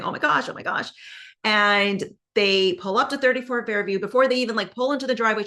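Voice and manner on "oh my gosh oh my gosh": higher, fretful imitation of panic; mock frantic panic. Karen panicking in the car on the way back, mild mock panic. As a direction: play her worried and rattled, voice pitched up. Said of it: "Karen's belligerent in the car saying".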